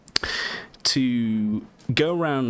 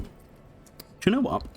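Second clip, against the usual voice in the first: squeaky, slow high-pitched aside; 14 semitones higher, much slower than usual. Real, not acted. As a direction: squeak it out slowly.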